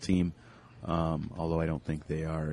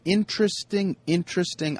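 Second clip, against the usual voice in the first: high sing-song; 11 semitones higher than usual. Real, not acted. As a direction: pitch the word way up, pondering. Repeats word, pitch jumps up.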